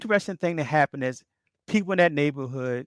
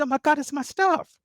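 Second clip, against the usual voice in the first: thrilled recognition; 13 semitones higher than usual. Retold or imitated. Victim recognises her stolen property.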